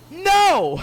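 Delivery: a sudden high, loud shrieking refusal; mock Adrienne yelling no at her partner; shrieked no. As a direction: squeal NO way up high. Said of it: "He says".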